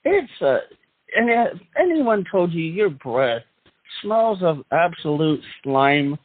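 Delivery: fast cheesy TV ad pitch; hammy announcer voice. Acted. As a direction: rattle off the fine print like an infomercial. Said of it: "do the hammy announcer voice".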